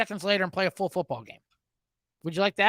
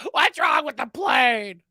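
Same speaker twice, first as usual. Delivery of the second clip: mock shout; 4 semitones higher, 4 dB louder, slower than usual. Imitating irate passenger again.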